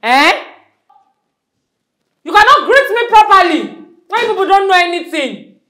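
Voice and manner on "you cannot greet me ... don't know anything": raised, higher scolding; teacher upset the class did not greet her properly, raised voice. Acted. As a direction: tell the class off sharply.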